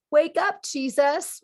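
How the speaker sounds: half-playful shout to rouse Jesus; mock urgent call. Calling out to sleeping Jesus.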